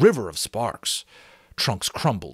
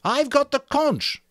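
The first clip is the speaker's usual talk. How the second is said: Piggy voice; 4 dB louder than usual. A narrator's reading.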